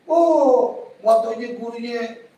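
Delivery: imitating a snide critic; mock sniping. Critic carping about someone's religious teacher, mock sniping. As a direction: open on a high 'oh', then carp. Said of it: "Ini ada yang nyinyir".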